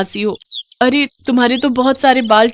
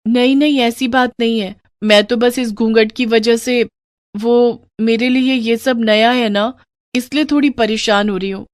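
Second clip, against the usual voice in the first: put-on higher, hurried young wife smoothing things over; calm your husband's worry; reassuring young bride; 3 semitones higher than usual.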